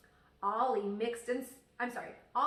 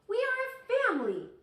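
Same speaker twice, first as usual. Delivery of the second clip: much higher, louder frustrated shout; 8 dB louder than usual. Acted. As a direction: yell it out in a child's despair. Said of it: "shouted Ollie".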